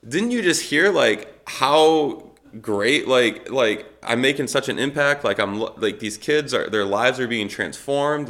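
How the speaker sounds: high, loud, indignant protest; pleading his own case in disbelief; exasperated protest. Retold or imitated. Retelling how he protested to the pastor, high and indignant.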